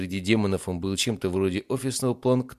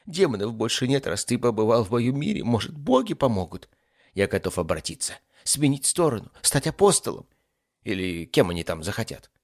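raised, lightly whiny ifrit voice; desperate demon; 4 semitones higher, 4 dB louder than usual. Acted. Demon offers to switch sides, desperate. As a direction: bargain in a lightly pitched-up voice.

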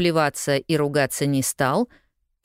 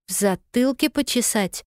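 confused question; 8 semitones higher than usual. A narrator's reading. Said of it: "растерянно переспросила Полианна".

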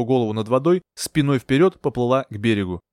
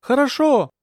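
high, drawn shout of agreement; called-back reply; 12 semitones higher, slower than usual. A narrator's reading. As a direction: answer across a distance. Shouted reply across water.

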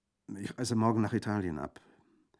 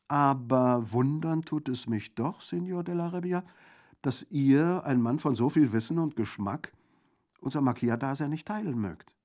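high, loud, rhetorical voice; theatrical bandit theologian; 7 semitones higher, 8 dB louder than usual. A narrator's reading. Theologian bandit wooing Orso to outlaw life, theatrical. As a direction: declaim with grand amazement.

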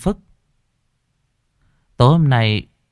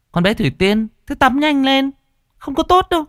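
much higher, nagging mother calling out. A narrator's reading. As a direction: call her daughter out of the bath. Mother calls through door. (giọng mẹ gọi với, cao vút)

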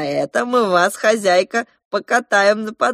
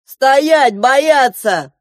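shouted order; 8 semitones higher, 10 dB louder, much slower than usual. A narrator's reading. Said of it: "закричал главный полицейский".

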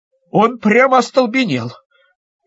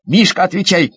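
plain reading voice

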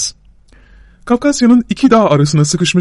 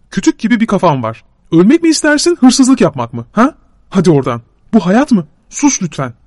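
a somewhat raised, exasperated rant; Şakro exasperated; 3 semitones higher than usual. Acted. Şakro snapping at his friend about stealing, somewhat raised and exasperated. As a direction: throw up your hands at him.

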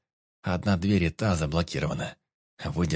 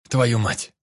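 angry curse; 3 semitones higher, 6 dB louder than usual. A narrator's reading. Vik curses getting up.

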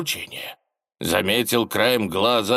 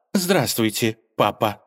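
dry reply. Acted. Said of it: "сухо отвечала".

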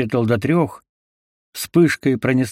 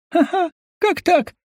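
much higher hysterical voice; hysterical delirium. A narrator's reading. Wounded dwarf babbles hysterically, delirious. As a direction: babble in shock. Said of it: "словно в бреду гном".

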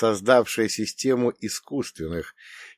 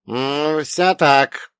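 lightly voiced old man, higher and louder; old man's agreement; 5 semitones higher, 5 dB louder, much slower than usual. A narrator's reading. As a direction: nod it through as the old man. Old man answers the hero.

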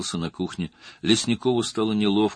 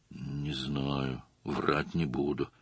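softer, hesitant admission; unsure answer; 4 semitones lower, 7 dB quieter, much slower than usual. A narrator's reading. Shurygin hesitantly answers the detective, softer and unsure. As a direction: trail off, unwilling to commit. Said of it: "неуверенно ответил Шурыгин".

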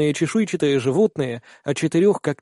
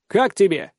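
shouting over wind; 4 semitones higher than usual. Acted. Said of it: "перекрикивая ветер".

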